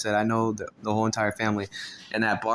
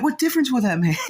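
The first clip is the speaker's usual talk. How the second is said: loud defiant; 5 dB louder than usual. Retold or imitated. Talking back.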